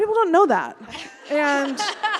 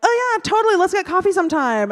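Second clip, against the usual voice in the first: breezy false promise; 5 semitones higher than usual. Acted. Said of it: "people in Seattle will say, like".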